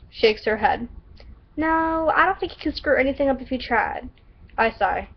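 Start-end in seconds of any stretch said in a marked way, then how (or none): 1.6-4.1 put-on stereotypical Southern accent, opening high. Shelby reassures a doubting Caster, Southern accent. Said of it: "stereotypical Southern accent".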